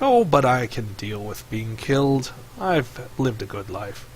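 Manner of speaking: slow, resigned creature, lightly acted; lightly voiced old-soul snake, accepting; Snake Face.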